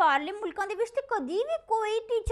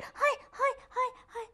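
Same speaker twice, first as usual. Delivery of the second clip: mock moaning; 6 semitones higher than usual. Moaning after the mock accident.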